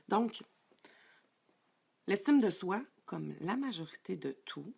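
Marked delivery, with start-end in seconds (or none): none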